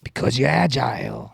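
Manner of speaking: brief hammed-up actor impression; Al Pacino. Host mimicking an actor, hammed-up voice. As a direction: loosely imitate a theatrical movie star. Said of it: "you're the Al Pacino version".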